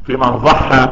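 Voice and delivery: ضحى said with za in place of dad. Shown as a demonstration. Teacher repeats the man's slip, za in ضحى. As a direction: slowly show ضحى opening on an emphatic za. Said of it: "بالضاء".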